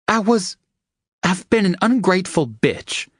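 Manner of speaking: high, pained self-reproach; painfully. A narrator's reading. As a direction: confess it as if it hurts. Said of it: "she said painfully".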